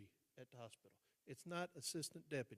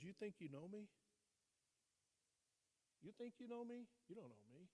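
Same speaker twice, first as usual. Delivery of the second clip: retold challenge; 6 semitones higher, 5 dB quieter than usual.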